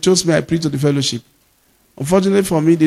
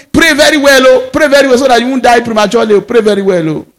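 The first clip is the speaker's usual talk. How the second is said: urging mother; 5 semitones higher, 4 dB louder than usual. Retold or imitated. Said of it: "my mother say".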